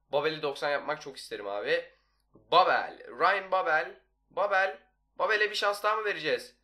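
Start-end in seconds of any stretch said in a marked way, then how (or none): 2.5-4.8 calling name. Real, not acted.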